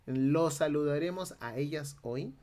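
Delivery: coastal Peruvian Spanish. Shown as a demonstration. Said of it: "Es un castellano costeño".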